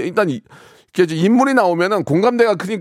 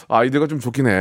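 ordinary talk

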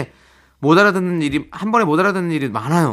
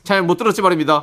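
korean military style; 3 semitones higher than usual. Shown as a demonstration. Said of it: "아니에요?".

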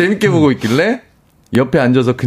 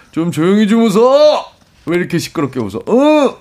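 mock scolding; 4 semitones higher than usual. Senior barging into the studio at laughing staff, mock scolding. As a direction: act out a cross senior's outburst. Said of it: "라고 혼내셨습니다".

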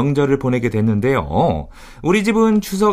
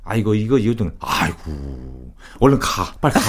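gruff Chungcheong father; 6 semitones lower than usual. Retold or imitated. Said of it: "반어법으로".

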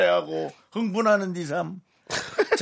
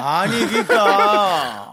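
exasperated; 6 dB louder, much slower than usual. Acted. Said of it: "지금 저한테 화를 내시는 거 같은데".

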